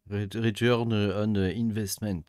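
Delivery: slow, careful English accent on return on investment; half-joking English accent, spoken slowly. Shown as a demonstration. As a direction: say it in English with a slightly hammed-up English accent. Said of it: "je suis avec mon super accent".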